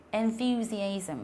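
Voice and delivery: enthusiasm, drawn out a second time; slow repeat. Shown as a demonstration. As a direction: repeat enthusiasm slowly for the class to copy. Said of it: "ví dụ như là từ".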